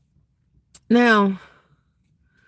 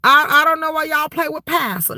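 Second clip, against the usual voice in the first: laughing; 5 semitones higher than usual. Real, not acted. Laughing repeat.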